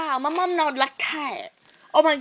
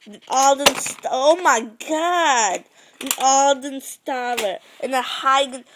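loud, exaggerated shouting; hammed-up alarm; 7 dB louder than usual. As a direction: shout in mock disbelief. Acted alarm at a gun.

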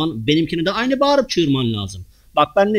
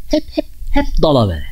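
ordinary talk, nothing marked

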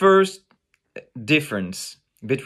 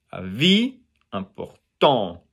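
"Vie" drawn out, "important" leaning on TANT; stress on final syllable; 3 semitones lower, slower than usual. Shown as a demonstration. Teacher pointing out French emphasis, final syllables stressed. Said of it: "vie and emphasis in".

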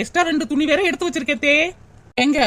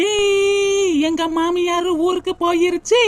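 gleeful cheer; 2 semitones higher, slower than usual. Acted. Daughter-in-law alone at last, cheering gleefully. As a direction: crow with glee. Celebrates mother-in-law leaving.

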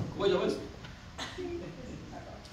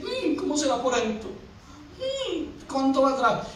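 idle wondering; 7 dB quieter than usual. Acted. Passer-by wondering about house.

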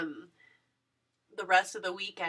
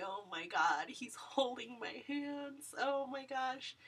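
higher, hushed whispered gush; awed whisper; 6 semitones higher, 6 dB quieter, slower than usual. Retold or imitated. Fan whose idol holds her hands, whispering in awe. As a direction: whisper like you might faint.

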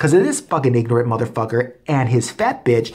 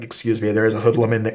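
prim complainer; 3 semitones lower than usual. Retold or imitated. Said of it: "I acted totally, like, different than I really do".

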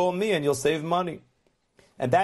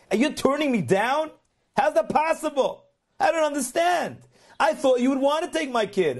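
higher-pitched, disbelieving plea at normal volume; shocked protest; 4 semitones higher than usual. Retold or imitated. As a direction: retell a stunned father's protest, pitch climbing on the questions. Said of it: "and he's shocked".

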